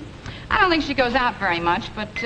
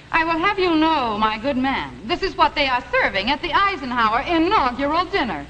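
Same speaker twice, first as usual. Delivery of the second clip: haughty airs. Acted. Wife puts on haughty airs.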